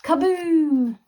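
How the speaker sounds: high, loud explosive word; dramatic boom. A narrator's reading. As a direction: burst it out like a blast. House explodes.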